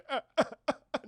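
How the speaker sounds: high, staccato fake sobs; mock crying. Soldiers crying as they are forced to play, mock sobs. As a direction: imitate a soldier's sobbing. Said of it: "just crying".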